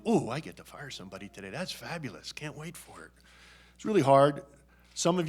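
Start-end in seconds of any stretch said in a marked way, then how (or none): 0.0-3.1 mock cheerful sarcasm. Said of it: "Nobody gets up in the morning and says".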